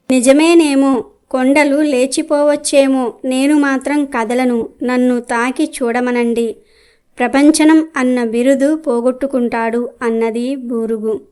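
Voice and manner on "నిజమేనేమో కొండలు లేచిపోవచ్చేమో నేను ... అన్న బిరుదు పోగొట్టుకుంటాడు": a somewhat raised, boastful voice; a proud tree scoffing back at the sage; boastful loud voice. Acted. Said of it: "పెద్ద గొంతుతో అరిచినట్టుగా మాట్లాడింది".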